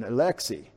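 Alexei as a-LEX-ee; "Alexei" with the LEX stressed; Russian second-syllable stress. Shown as a demonstration. Preacher compares it to Russian, second-syllable stress. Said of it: "like in Russian".

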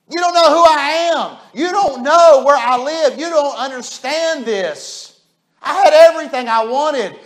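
a lightly voiced aggrieved Joseph, pleading; Joseph complaining. Joseph tells the church his brothers wronged him, aggrieved pleading. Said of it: "Here's what he'd pull on us".

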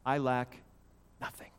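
deliberate I lack, hushed nothing; word-by-word emphasis. Shown as a demonstration. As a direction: set nothing apart after a pause. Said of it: "emphasize one word at a time".

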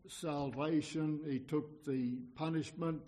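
usual speaking voice

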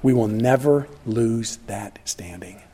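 slow, hushed whisper. Real, not acted. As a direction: breathe it like a secret promise. Whispered assurance to the congregation.

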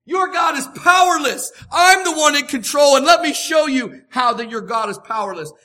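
loud commanding proclamation; divine declaration. Retold or imitated. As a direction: thunder it as God over Egypt. God declares to the Egyptians.

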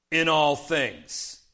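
"in all things" drawn out slowly with weight; emphatic stress. Real, not acted. Preacher pointing children to the passage's wording, "in all things" slow and emphatic. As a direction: stretch "in all things" at half speed, each word deliberate. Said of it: "notice it says here in this passage".

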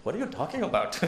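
baffled put-on Indian accent. Indian missionary replies to American complainers, Indian accent. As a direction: answer the wailers in an imitated Indian accent. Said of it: "I'll stop doing the Indian accent".

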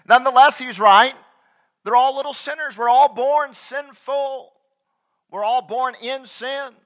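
high, loud, slow proclamation; full-force pulpit cry; preaching. Acted. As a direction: lift it and hammer it home. Preaching peak.

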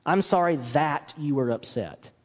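passive, deflecting "I'm sorry that you were upset."; the non-apology take; wrong apology. Shown as a demonstration. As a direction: brush it off without owning it. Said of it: "Instead, say something like".

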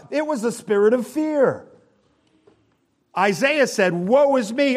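high, loud pulpit preaching; full-force sermon delivery; fiery preaching. Acted. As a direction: preach it hard to the congregation.

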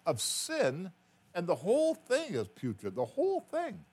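preacher pleading with his sister; impassioned plea. Retold or imitated. Preaching to crying sister in car.

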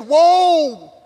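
high, loud, long-drawn whoa; amazed onlookers. Acted. Onlookers see Jesus weep over his friend, amazed exclamation. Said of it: "they looked at his sorrow and his weeping".

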